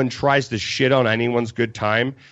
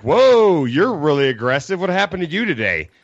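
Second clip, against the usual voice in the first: snarky; 4 semitones higher than usual. Retold or imitated. Telling a party stranger off with snark. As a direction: needle her with fake concern. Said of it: "Being really snarky about it".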